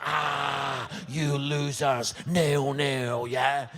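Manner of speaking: gloating jeer. Retold or imitated. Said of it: "I was like".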